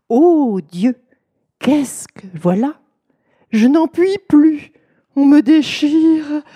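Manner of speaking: loud, high anguished outcry of a husband pretending labour pains; feigned cry of pain. Husband testing his wife at night, loud mock anguish. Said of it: "un mari s'écria la nuit".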